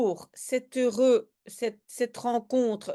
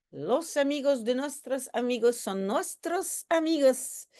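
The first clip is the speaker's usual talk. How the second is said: lightly put-on Spanish accent; 3 semitones higher than usual. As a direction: recite it with a mild Spanish accent. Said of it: "on va en fait imiter l'accent espagnol". (léger accent espagnol imité)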